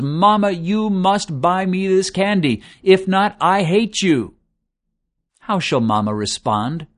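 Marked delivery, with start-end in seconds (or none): 0.0-4.3 boy yelling at his mother over candy, hammed-up but mild; mild mock scream. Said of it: "screaming at the top of his lungs".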